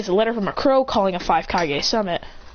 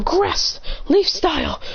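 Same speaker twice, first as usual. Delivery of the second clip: much higher, slow, stretched battle cry; slow, much higher dramatic jutsu shout; jutsu call; 10 semitones higher, much slower than usual. Acted. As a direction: belt out the technique name. Character calls out jutsu name.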